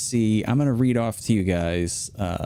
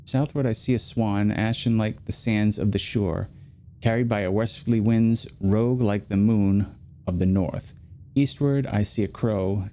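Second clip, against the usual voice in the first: poem reading. Acted. Streamer reading a game's location hint poem to chat, unhurried. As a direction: read it like an old prophecy, unhurried. Reads a riddle poem aloud.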